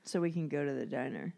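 low secret whisper. Real, not acted. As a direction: whisper it to the group. Whispered aside.

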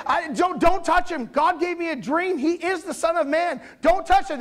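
a lightly put-on high wife's plea; Pilate's wife voice. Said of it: "so basically said".

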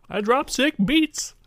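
high slow rapper voice. Acted. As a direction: drop it like a cocky rapper. Rapper bard voice bit.

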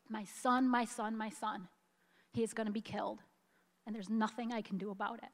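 quiet, tearful repeat; tears still in the voice, fast at the end; soft choked plea as she quotes the mother again. Real, not acted. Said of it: "I get so choked up about this".

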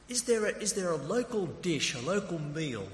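high-pitched, curious question; eager enquiry. Retold or imitated. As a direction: act out keen interest in their home. Acts out next question to driver.

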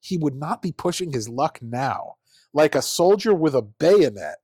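slow, lightly voiced stuffy old pundit reading aloud; pompous old fat columnist. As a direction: read it like a smug old editorial writer, slowly. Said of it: "I think it's an old fat guy".

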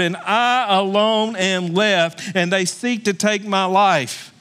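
slow, self-pitying lament; mild mock self-pity; Elijah complaining. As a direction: drag it out like a sulking prophet. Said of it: "He said".

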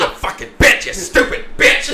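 mock abusive husband. Voices the abusive husband, laughing.

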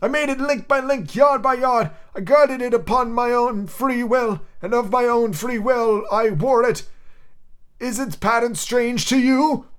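high, slow, solemn ghost of Marley. Acted. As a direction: intone it like a chained spirit.

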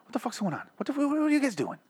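high, strained Boston-guy bafflement; Mark Wahlberg impression. Venting about a pointless local article as Mark Wahlberg, high and strained. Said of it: "why am I talking like Mark Wahlberg?".

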